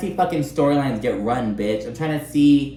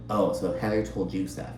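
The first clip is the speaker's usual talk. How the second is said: mock whisper; 3 semitones lower, 7 dB quieter than usual. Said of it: "She's then kinda whispering about".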